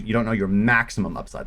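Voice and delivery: "maximum" picked out with firm emphasis; stress on maximum. Real, not acted. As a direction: lean on the word "maximum", drawing it out. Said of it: "Let me emphasize the word maximum".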